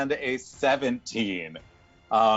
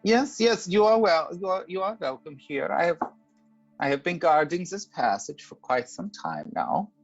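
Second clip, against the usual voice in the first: high, gracious dragon voice; a gracious ancient dragon welcoming guests; 5 semitones higher, faster than usual. Acted.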